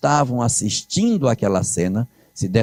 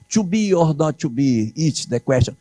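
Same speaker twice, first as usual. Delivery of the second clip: mock English quote; 4 semitones higher than usual. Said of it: "nem vai dizer".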